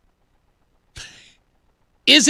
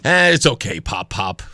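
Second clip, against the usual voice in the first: humoring grandpa; 13 semitones lower than usual. Acted. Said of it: "I'm just like".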